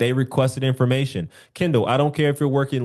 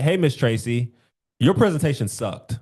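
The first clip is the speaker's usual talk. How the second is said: flat, blunt put-down; blunt, rude. Shown as a demonstration. Coach demos a rude tone to a client. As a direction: say it bluntly with no cushioning. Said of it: "the way that I said it in my tone".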